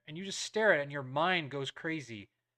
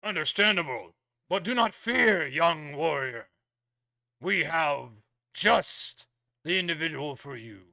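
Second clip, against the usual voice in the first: booming warrior king; 4 dB louder than usual. Acted. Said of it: "very kind of stern royal voice".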